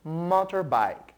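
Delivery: motorbike said slowly, the English way. Shown as a demonstration. Teacher slowly models motorbike for the class to repeat. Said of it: "Mais uma vez".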